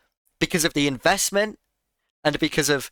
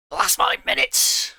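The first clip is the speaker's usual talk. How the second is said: much higher, put-on exclaiming voice; exaggerated exclamation; 10 semitones higher than usual. Streamer jokily repeating his claim after correcting himself, exaggerated exclamation. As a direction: jump up high in mock insistence.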